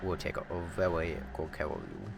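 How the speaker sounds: put-on Discord daddy. Streamer teasing chat as Discord daddy, soft put-on voice. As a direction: coo it softly like a mock Discord daddy. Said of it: "talking like that".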